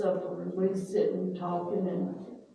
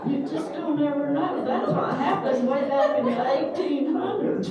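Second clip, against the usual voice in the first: laughing; 7 semitones higher, 7 dB louder than usual. Real, not acted. Joking while laughing.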